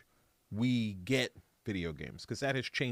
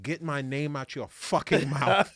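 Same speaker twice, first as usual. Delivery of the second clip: louder, emphatic comic rant; mock-angry message; 5 dB louder than usual. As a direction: tell them off in mock outrage. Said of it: "to be like".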